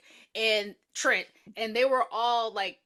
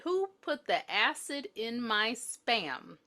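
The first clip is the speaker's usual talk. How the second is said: slow replay; 2 semitones higher, much slower than usual. Retold or imitated. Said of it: "make sure this is what she said".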